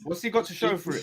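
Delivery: laughing through the question. Real, not acted. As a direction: ask it while laughing. Laughing while arguing.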